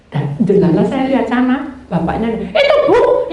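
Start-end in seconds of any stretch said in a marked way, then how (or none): 2.3-3.3 excited pointing out. Retold or imitated. Driver points out the awaited rider.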